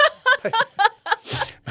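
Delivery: a sudden high loud laugh bursting out; burst of real laughter. Real, not acted. Telling the guest about the doctor, bursting into a high laugh. Doctor suggests lost mind.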